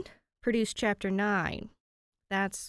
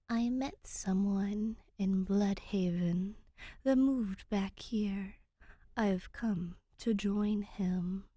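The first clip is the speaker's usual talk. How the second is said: 1 hushed reply in Ancient; slower than usual. Acted. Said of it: "Danny replies in Ancient".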